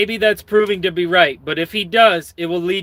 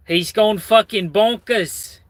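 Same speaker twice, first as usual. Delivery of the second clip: bad English accent; 4 semitones higher, slower than usual. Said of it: "very bad English accent".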